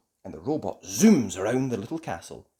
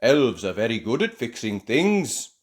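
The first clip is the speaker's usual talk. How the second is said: proud cheer; 2 semitones higher, 8 dB louder, slower than usual. A narrator's reading. Ben and Barnaby boasting of elf skills, proud cheer. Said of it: "cheer Ben and Barnaby together proudly".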